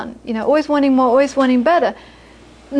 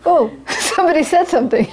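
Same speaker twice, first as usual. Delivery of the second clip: startled bag packer; 3 semitones higher, faster than usual. Acted. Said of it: "if you reply to him, he's".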